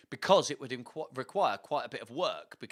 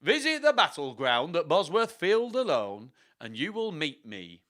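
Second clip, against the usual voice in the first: Richard the third; 3 semitones higher, 3 dB louder than usual. Acted. Richard inviting you to Bosworth Field, theatrical accent. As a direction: summon the listener in a theatrical accented voice. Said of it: "that's gonna be his voice".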